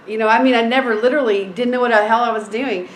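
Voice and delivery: ordinary talk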